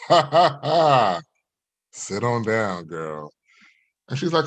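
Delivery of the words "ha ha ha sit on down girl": A singer. Acted. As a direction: put on a suave pick-up voice. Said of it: "put my extracurricular crooner voice on".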